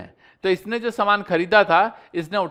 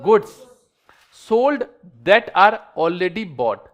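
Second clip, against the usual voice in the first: slow dictation; 3 dB louder, much slower than usual. Shown as a demonstration. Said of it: "जोर से बोल के बताओ".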